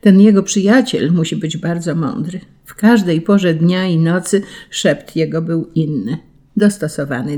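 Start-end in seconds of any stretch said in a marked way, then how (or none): none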